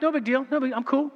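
high-pitched fake-casual fish; nonchalant fish. Preacher voices fish turning away from the bait, feigned nonchalance. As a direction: play it cool in a little high voice. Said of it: "they'll turn away like".

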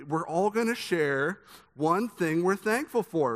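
drawn-out eager party host; cheerful organizer laying out the game slowly; chirpy extrovert voice. Retold or imitated. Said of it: "I don't know why I'm using this voice".

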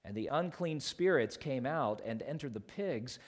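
deliberate Bible narration with weighted nouns; scripture reading. Acted. Pastor reads the Gospel story aloud, measured scripture reading. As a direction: tell it solemnly, phrase by phrase.

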